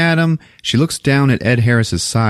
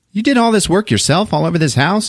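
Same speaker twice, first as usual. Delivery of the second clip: prying high voice; 10 semitones higher than usual. Retold or imitated. Older woman probing, high.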